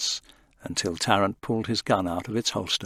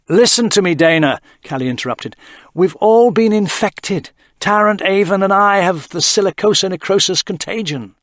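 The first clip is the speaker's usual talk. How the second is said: voiced higher, grave and insistent; urgent Callie; 9 semitones higher, 9 dB louder than usual. A narrator's reading. Callie telling Dana they're infected, grave. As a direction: break the bad news firmly.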